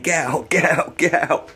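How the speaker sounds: imitating a neighbour chasing a cat out; shooing a cat. Neighbour's daughter chasing the cat out, mock shouting. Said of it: "He's banging it".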